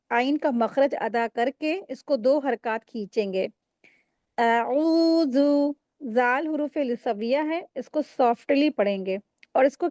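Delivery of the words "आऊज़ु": आऊज़ु slowly drawn, ऐन stretched two counts; correct tajweed. Shown as a demonstration. Tajweed teacher models the word for students, slow and drawn. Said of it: "आऊज़ु को कैसे पढ़ेंगे?".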